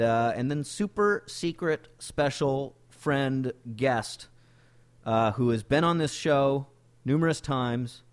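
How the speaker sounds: upbeat podcast ad read; sponsor read. Acted. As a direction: pitch the sponsor with energy.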